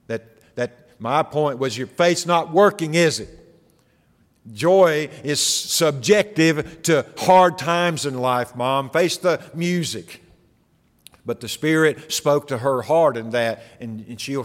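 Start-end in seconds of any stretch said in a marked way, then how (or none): 1.8-10.2 mock smug taunt, pitched up and louder; smart-mouthed son. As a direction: needle her like a smug, cocky son. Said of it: "the smart mouth of an unbelieving".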